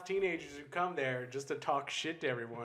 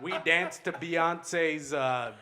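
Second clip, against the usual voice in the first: pompous actor voice; 3 dB louder, slower than usual. Retold or imitated. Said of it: "They're like".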